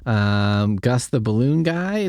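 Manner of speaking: normal talking voice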